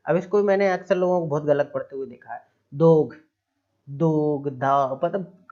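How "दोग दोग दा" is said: "दोग" with a hard g at the end; misreading though letter by letter; wrong pronunciation. Shown as a demonstration. Teacher mocking a common misreading of though. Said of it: "पता नहीं कैसे कैसे पढ़ लेते हैं".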